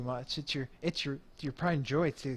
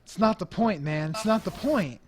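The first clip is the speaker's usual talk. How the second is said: higher, louder exasperated pushback; exasperated protest; 4 semitones higher, 5 dB louder than usual. Acted. Band leader rejects his bandmate's excuse, exasperated. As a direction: cut off the excuse in frustration.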